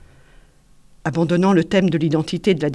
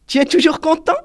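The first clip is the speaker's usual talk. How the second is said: higher, louder patronising coo; teasing adult; 10 semitones higher, 7 dB louder than usual. A narrator's reading. Julien pinching Valentin's cheek, loud teasing. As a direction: talk down to him fondly.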